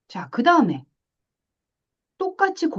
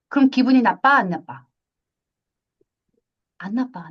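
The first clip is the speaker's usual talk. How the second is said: ordinary talk, nothing marked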